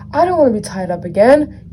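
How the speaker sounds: loud pleading in a story voice; begging. A narrator's reading. Captive who dreads being tied up, begging. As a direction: beg out loud not to be hurt. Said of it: "I begged".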